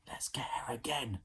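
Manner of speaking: soft, breathy whisper. Acted. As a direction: whisper a sneaky plan. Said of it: "Ned whispered to Slime".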